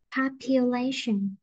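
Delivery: each word read out slowly, syllable by syllable; slow, careful reading of test words. Shown as a demonstration. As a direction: read slowly so the class can mark stress. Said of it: "cô đọc cả lớp tự đánh nhá".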